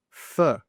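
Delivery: "for" reduced to fuh; weak for. Shown as a demonstration. Teacher models the next word, weak for. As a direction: say "for" with a schwa, no full vowel. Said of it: "when do we use weak forms".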